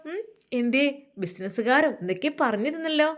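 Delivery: pry at her playfully; teasing friend. Acted.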